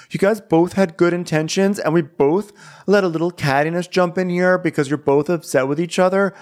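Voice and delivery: Kyle. Retold or imitated. Kyle asking both sides to move on, lightly mimicked. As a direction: lightly imitate someone earnestly smoothing things over. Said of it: "So Kyle goes".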